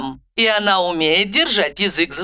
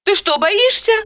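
raised, astonished question; amazed; 13 semitones higher, 3 dB louder than usual. A narrator's reading. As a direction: ask in disbelief. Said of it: "изумилась я".

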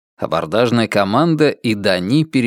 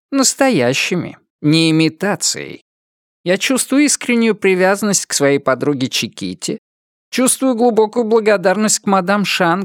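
higher-pitched, earnest robot character voice; earnest robot cat; 7 semitones higher than usual. A narrator's reading. Robot cat explains to Dani why it turned pirate, earnest, higher voice. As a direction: voice a robot pleading its feelings, pitched up.

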